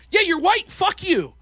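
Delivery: high, loud mock taunt; mock hostile jab. Novice debater taunts the opposing team, mock loud jab. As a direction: throw it at them with contempt.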